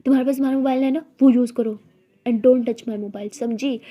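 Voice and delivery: snatch the phone back, jealous; loud jealous scolding; jealous snap. Acted. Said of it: "गुस्से से तारा से अपना mobile लेती है".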